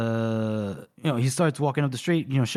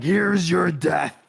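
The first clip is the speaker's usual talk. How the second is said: mock war cry; 4 semitones higher, 4 dB louder, much slower than usual. Scale charging with his axe.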